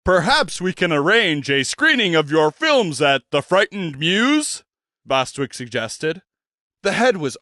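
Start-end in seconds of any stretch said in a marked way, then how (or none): 0.0-4.6 a pompous stage gentleman's introduction; grand old showman. Acted. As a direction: present yourself like a theatrical impresario. Bostwick proposes screening.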